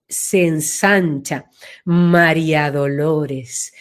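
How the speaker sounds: low, slow, widened María Dolores; broadening, deep. Shown as a demonstration. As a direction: let the name spread out low and slow. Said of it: "Y si fuera María Dolores". (nombre dicho grave y lento)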